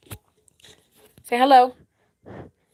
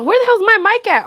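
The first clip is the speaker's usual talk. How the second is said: flustered search; 12 semitones higher, 6 dB louder, faster than usual. Real, not acted. Frantic search, high fast.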